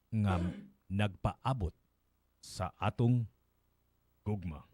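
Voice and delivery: measured Binisaya verse reading, pausing between phrases; solemn poetry reading with spaced phrases; poem recitation. Acted. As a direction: recite it line by line, deliberately. Reads the translated poem.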